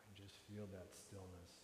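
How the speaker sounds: quiet, calm stillness cue; soft meditative cue. Shown as a demonstration. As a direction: let it settle softly. Meditative close.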